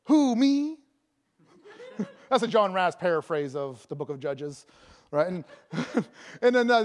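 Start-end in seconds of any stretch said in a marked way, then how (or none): 0.1-0.8 higher mock-bewildered question; incredulous Gideon. Preacher plays Gideon answering the angel, mock disbelief. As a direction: squeak out a comic disbelieving query. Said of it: "What does Gideon say?".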